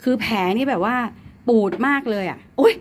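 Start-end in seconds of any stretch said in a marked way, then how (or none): 1.5-2.7 sudden alarm. Real, not acted. Suddenly remembers cat's medicine.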